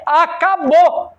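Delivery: high, slow, drawn-out proclamation; emphatic final verdict. Acted. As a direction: declare it over, stretching the word out. Acts God's final verdict, drawn out. (veredito final proclamado, arrastado)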